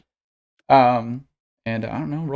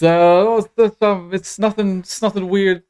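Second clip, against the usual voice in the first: lightly voiced nervous dragonkin, halting and higher; awkward dragonkin; 3 semitones higher than usual. Stranger approaches the Starfinders he followed, awkward and hesitant. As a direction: stammer through an uneasy introduction.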